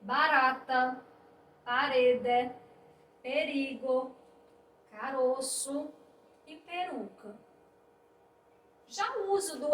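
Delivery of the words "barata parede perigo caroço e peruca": barata, parede, perigo, caroço, peruca with a single tapped R; soft R. Shown as a demonstration. Teacher reading barata, parede, perigo, caroço, peruca, soft R. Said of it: "De forma mais branda".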